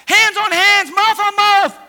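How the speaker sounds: loud, high and punchy; preacher's shouted refrain; emphatic shout. Acted. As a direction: hammer each phrase out. Preacher shouting key phrase.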